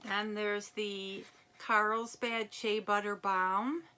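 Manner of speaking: ordinary delivery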